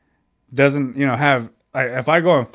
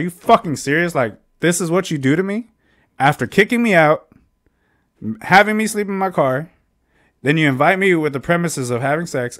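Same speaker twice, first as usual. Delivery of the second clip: indignant, higher-pitched retelling of a confrontation; retold angry outburst; 4 semitones higher than usual. Man confronting the woman who kicked him out, retold angrily. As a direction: re-enact being pissed off, voice lifted. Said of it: "Naturally, I'm pissed off".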